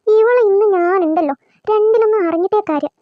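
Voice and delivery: rising anger at the unwashed dishes; fuming scolding. Acted.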